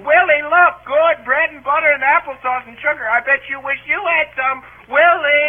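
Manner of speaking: singling out a kid's taunt in mimicry; mocking holler. Brother imitating his sister's taunts for mother, mock holler. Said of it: "she kept hollering".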